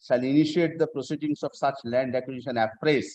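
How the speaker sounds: reading the statute aloud, measured; formal legal reading. Shown as a demonstration. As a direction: read the law word by word. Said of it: "I am reading section tw".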